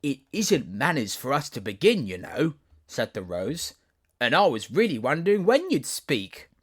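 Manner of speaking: a grand garden rose, gossiping; rose, chatty and superior. Acted. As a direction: chatter down at the girl from a tall stem. Rose voiced at length.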